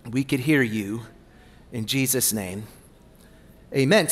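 hushed closing prayer before the message. Acted. Opening prayer before sermon.

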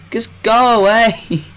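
high, loud, slow yell; panicked shout. Real, not acted. Shouting at the monsters chasing him, high and loud. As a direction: yell at them to leave.

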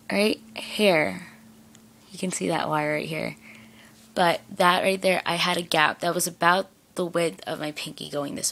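lip pulled down by finger; talking while showing braces. Real, not acted. Seen 1: Finger presses lower lip down to show braces from 1.8s.

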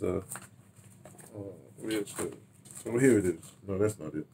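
usual speaking voice

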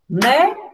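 "Boneca" as three isolated beats; split into syllables. Shown as a demonstration. Teacher shows counting with claps, "Boneca" broken into syllables. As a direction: sound out "Boneca" with a pause after each syllable. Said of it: "pode fazer com palmas também".

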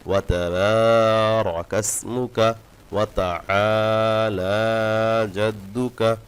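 slow, stretched Arabic recitation; slow recitation demo. Shown as a demonstration. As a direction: draw every madd out carefully. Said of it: "এভাবে আস্তে আস্তে টান দিয়ে দিয়ে". (আস্তে আস্তে টান দিয়ে পড়া)

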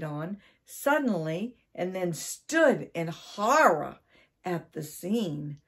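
animated read-aloud storytelling; story narration. A narrator's reading. Storyteller reading about Mister Twiddle and the cat, animated narration. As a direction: tell it clearly with lively stress.

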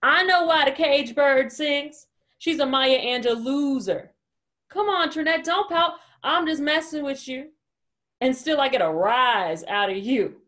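acted sneering put-down; mocking critic. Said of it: "he'd cringe and criticize".

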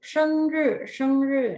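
"เซิงรื่อ" enunciated firmly for learners; pronunciation drill. Shown as a demonstration. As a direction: model "เซิงรื่อ" clearly, syllable by syllable. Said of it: "ทวนการออกเสียงอีกครั้งหนึ่ง".

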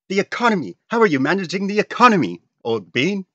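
very high, loud, hammed-up posh British voice; posh British accent. UK correcting itself to Canada, shrieky mock posh British accent. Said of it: "proper posh voice".

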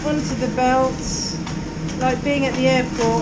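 loud, upbeat calling over noise; cheery ski instructor shouting. Real, not acted. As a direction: call out cheerfully to the group.

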